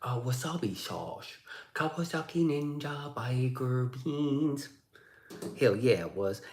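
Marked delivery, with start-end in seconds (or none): 0.0-4.7 hammed-up Chinese accent; mock Chinese accent. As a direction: draw out each word in a put-on Chinese accent. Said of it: "I gotta get my Chinese voice".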